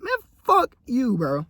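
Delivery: very high, slow, drawn out; repeating the clapback slowly; defiant retort, restated. Shown as a demonstration. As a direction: savor the comeback. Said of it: "that's the best I could put it".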